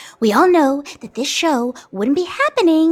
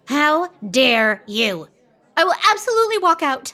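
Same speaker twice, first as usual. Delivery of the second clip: offended diva; 2 semitones higher than usual. Acted.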